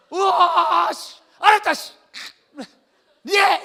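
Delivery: loud, high strained shout; hammed-up exasperated surrender. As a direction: give in yelling, played for laughs. Acts Esau furiously giving in.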